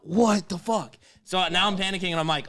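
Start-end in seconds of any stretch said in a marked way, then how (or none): 0.0-0.9 loud, high cry of exasperation; loud mock outrage; retold exasperated outburst. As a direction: act out being hung up on. Acts outburst after being hung up on.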